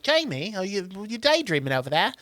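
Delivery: lightly voiced English teacher; teacher's question in a put-on English accent; imitation English accent. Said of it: "I'm doing an English accent".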